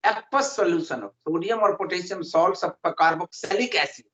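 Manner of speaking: very slow, word by word dictation. Acted. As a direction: dictate each word so students can write it down. Dictating definition to students. (धीमे-धीमे लिखवाना)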